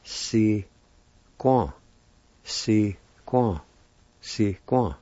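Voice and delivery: si quan said clearly with a falling quan; pronounce si quan. Shown as a demonstration. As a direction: repeat si quan for learners. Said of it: "it's pronounced like this".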